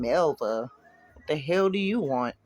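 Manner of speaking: slow, venom-dripping question; venomous. Acted. Ex sneers at the girlfriend on the phone, slow venom. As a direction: let each word drip with contempt. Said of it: "her voice dripping with venom".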